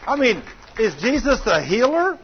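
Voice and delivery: high, loud rallying question; fervent call. Real, not acted. Preacher calls out high and loud to the congregation. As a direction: rouse the crowd.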